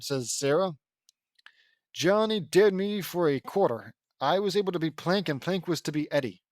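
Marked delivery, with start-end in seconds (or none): 1.9-6.4 animated take of a character's line; character reading. Acted. Ed explains dare for a quarter, animated character voice. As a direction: read it out in character, with fuller voice.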